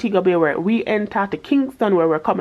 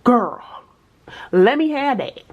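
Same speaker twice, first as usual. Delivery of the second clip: excited plea; 5 semitones higher, slower than usual. Retold or imitated. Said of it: "And I was like".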